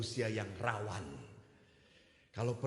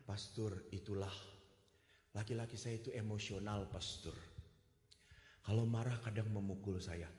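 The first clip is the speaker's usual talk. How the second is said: sad confession; 2 semitones lower, 3 dB quieter than usual. Retold or imitated. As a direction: confide it quietly to the priest. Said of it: "Dia langsung ngomong". (pengakuan sedih yang lirih)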